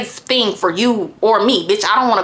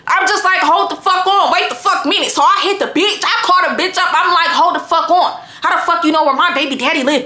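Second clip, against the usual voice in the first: high-pitched, half-laughing angry call; retold furious phone call, laughing through it; heated phone rant; 4 semitones higher than usual. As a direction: fire questions at her, worked up and incredulous. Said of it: "Do you hear how mad I am over this motherfucking phone".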